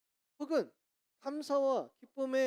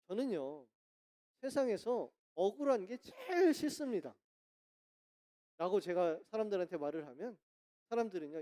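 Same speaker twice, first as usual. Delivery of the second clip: ordinary talk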